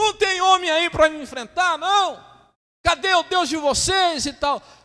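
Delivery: loud, very high, jeering battle-cry shout. Retelling the story of David, voicing Goliath's taunt, retelling Goliath's shouted taunt. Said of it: "está gritando assim".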